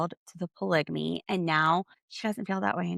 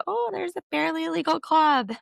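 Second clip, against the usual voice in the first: imitating Janelle; 10 semitones higher than usual. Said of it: "and Janelle goes".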